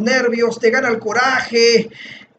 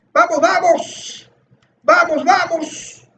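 higher-pitched repeated cheer; insistent rallying cry; 4 semitones higher than usual. Real, not acted. Gamer vowing to keep yelling until it fails, insistent rallying cry. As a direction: keep urging yourself on, pitched up. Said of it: "Voy a seguir gritando "vamos".

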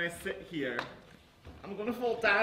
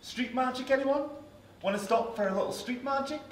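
calling out to passersby on the street; 7 semitones higher than usual. Real, not acted.

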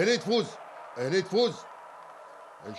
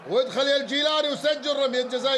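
rising, excited commentary; excited Gulf Arabic handball commentary; live play-by-play; 3 semitones higher than usual. Real, not acted. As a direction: call the attack as it builds.

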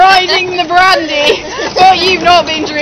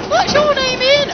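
squeaky ventriloquist dummy; 11 semitones higher, slower than usual. Retold or imitated. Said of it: "he's like".

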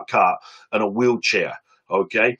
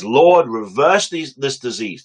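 fervent prayer; 2 semitones higher, slower than usual. Retold or imitated. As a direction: cry out to the Lord slowly, then fall away. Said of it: "That was his prayer".

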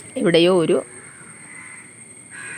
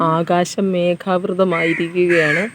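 slow dictation; 2 semitones lower than usual. Shown as a demonstration. Reads challenge sentence for partner.

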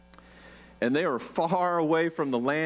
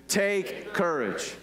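slow reassurance; 3 semitones lower, much slower than usual. Shown as a demonstration. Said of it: "One more time".

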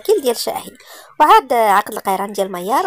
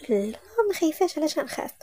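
higher and softer, nervous denial; nervous and shy; 5 semitones higher, 6 dB quieter than usual. A narrator's reading. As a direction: brush off the fear shyly, in a higher voice. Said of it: "مريم توتر وخجل". (إنكار متوتر خجول بصوت أعلى وأخفض)

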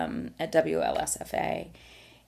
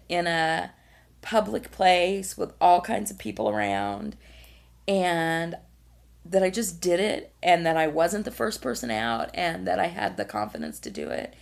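choked up, voice catching; holding back tears while speaking; verklempt; 2 semitones higher than usual. Real, not acted. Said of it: "I'm gonna get verklempt again".

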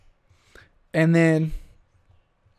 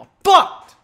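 much higher, mock squeal on fucked; squeaky repeat; 13 semitones higher, 8 dB louder than usual. Real, not acted. Host mocking his own lost train of thought, high squeal.

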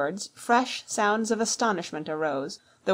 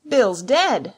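loud, raised call of alarm; higher, startled shout; shouting from the house; 4 semitones higher, 8 dB louder than usual. A narrator's reading. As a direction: shout the news to those outside. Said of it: "a voice shouting from the house".

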